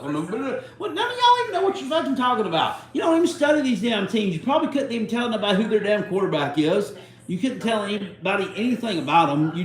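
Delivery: angry rant. Real, not acted. Ranting at clueless commentators.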